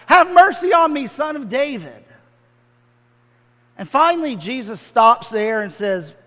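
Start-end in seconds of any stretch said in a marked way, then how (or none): 0.1-2.0 calling out high and loud for mercy; louder plea. Acted. The blind beggar calls out to Jesus, loud. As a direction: cry out over the crowd. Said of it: "Bart yells out louder and louder".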